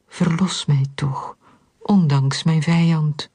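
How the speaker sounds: measured, solemn psalm recitation with pauses between phrases; scripture reading. A narrator's reading. A worshipper reciting a psalm to God, solemn measured reading. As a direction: read it as a plea, phrase by phrase. Reads a psalm aloud throughout.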